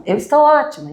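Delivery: exclamação aguda e mais alta; mock exclamation. Shown as a demonstration. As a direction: bem animada, exagerando a alegria. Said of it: "Eu não falo assim". (exclamação exagerada e aguda)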